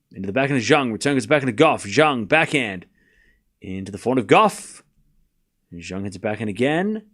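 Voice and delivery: low-pitched running rally call in short bursts; tennis play-by-play. Real, not acted. Commentator calling backhands between Zhang and Goff, live play-by-play. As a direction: track the ball shot by shot.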